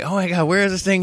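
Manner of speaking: high, urgent question; retold alarm. Storyteller voicing the men hunting the lizard, high and urgent. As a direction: relive a worried search.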